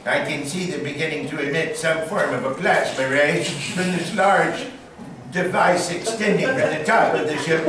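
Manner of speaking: lightly voiced radio drama Orson; dramatic announcer hint; young Orson Welles. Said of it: "So I'm back there going".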